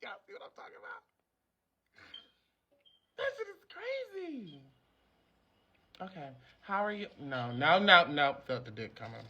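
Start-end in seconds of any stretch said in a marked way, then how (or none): 0.0-4.6 awed whisper. Real, not acted. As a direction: hush it, stunned and amazed. High, amazed after thinking God spoke.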